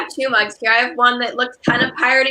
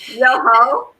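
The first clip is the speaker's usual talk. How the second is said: half-hearted pirate hail; pirate talk; 4 dB louder than usual. Pretend. Greeting viewers on pirate day, playful pirate talk. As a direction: call out a mock pirate greeting. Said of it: "we're not talking like pirate".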